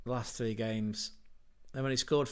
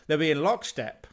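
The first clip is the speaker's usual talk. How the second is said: a light, louder imitation of a podcast host's accent on "They'll be in lockstep"; Manu's accent; 3 semitones higher, 5 dB louder than usual. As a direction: quickly mimic a fellow pundit's accent, half-joking. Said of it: "Don't judge me on that accent".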